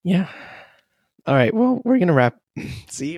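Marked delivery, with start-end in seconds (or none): 1.5-2.4 real voice crack, jumping higher. Real, not acted. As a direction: let the voice crack up mid-line. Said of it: "Prime example of my voice cracking".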